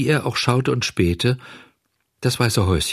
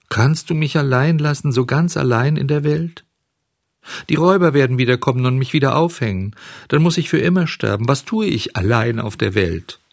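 higher-pitched, pleading grief, acted; sobbing lament; 4 semitones higher than usual. Puppet alone at the fairy's grave, lamenting plaintively. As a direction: plead with the dead, forlorn and increasingly desperate. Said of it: "schluchzte er".

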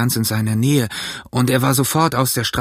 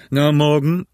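very stern; 4 semitones higher, 3 dB louder than usual. A narrator's reading. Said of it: "sagte Long John sehr ernst".

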